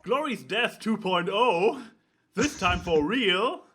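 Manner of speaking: loud, slow movie-trailer announcer; dramatic trailer voice. Acted. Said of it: "I have this, uh, Gallo humor".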